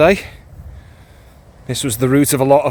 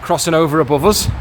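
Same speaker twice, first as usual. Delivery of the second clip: echoing under a bridge. Real, not acted. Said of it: "Ooh, nice echo under the bridge".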